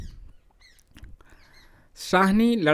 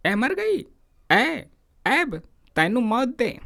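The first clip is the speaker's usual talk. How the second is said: high, furious yelling at his wife; angry shout; 9 semitones higher, slower than usual. Retold or imitated. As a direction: scream curses at her. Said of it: "चीख कर बोला". (पत्नी पर चीखता हुआ गुस्सा)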